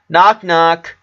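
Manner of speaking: loud high call over the noise; screamed. A narrator's reading. Brother shouting to get his sisters' attention, loud. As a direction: shout it to be heard over crying. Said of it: "he screamed".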